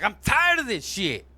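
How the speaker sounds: mildly exasperated gripe, pitch lifted; annoyed. Acted. Joke character wakes up all mad, annoyed. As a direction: punch it up as a fed-up grumble.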